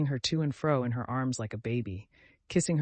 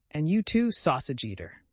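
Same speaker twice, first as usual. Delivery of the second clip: angry shout. Acted. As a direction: hurl the insult. Katerina's furious accusation.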